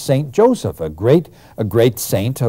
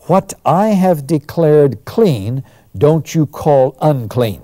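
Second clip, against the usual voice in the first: slow, deliberate divine command; voice of God; 2 semitones higher, slower than usual. Retold or imitated. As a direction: lay down the word slowly like God speaking. God's voice answers Peter in vision.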